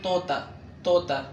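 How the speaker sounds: توتا with two plain t's, "tota"; Urdu pronunciation. Shown as a demonstration. Teacher explains both طاء letters, توتا with light t. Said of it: "مثل ت".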